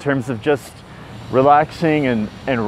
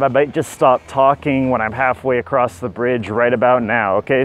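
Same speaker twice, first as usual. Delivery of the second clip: talking on a held breath; holding breath; 2 semitones lower than usual. Real, not acted. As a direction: squeeze words out holding breath. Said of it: "hold my breath the entire time".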